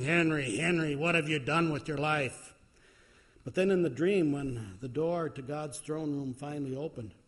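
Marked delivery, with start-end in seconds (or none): 0.0-2.5 louder, lightly voiced stern summons; deep voice of God. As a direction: imitate a deep divine voice, mildly. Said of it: "speak with a deep voice".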